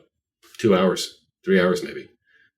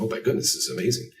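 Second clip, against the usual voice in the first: amazed delight; 5 semitones higher, 3 dB quieter, faster than usual. Retold or imitated. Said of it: "And I was like".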